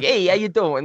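mock the character's odd way of talking; mocked movie voice. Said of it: "never talked like that".

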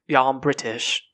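lightly put-on British accent; mock British accent. Podcaster imitating people in Britain, mock British accent. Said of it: "Great accent".

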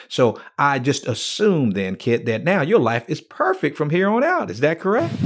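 mock-innocent assumption, lifted toward the question; tongue-in-cheek leading question; sarcastic. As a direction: play dumb with a teasing, rising check at the end. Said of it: "I'm being sarcastic".

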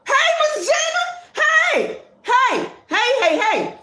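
hollering hey across the room; shouting hello to Miss Gina; excited calling out. Real, not acted. Greeting a viewer loudly by name.

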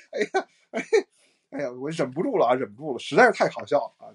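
talking through real laughter; laughing while talking. Real, not acted. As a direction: get words out between laughs. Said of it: "我忍不住了，实在是太好笑了".

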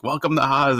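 retold wrestler's proclamation, lightly shouted; Kevin Sullivan yelling. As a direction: imitate a hollered entrance cry without full volume. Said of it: "Kevin Sullivan's yelling".

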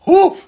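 short, high, loud whoof; exclaimed woof. Real, not acted. Reacting to the show's early episodes, exclaimed whoof. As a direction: let out a sharp, high-pitched whoof.

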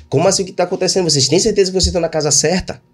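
fast, baffled protest; confused protest. Retold or imitated. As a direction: rush the question in disbelief. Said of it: "exatamente desse jeito aqui".

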